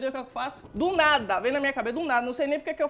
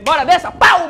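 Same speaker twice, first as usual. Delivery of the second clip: loud, higher barked order; mock shout; 5 semitones higher, 16 dB louder than usual. Fare collector yelling at the freeloader to get off. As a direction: yell him off the bus.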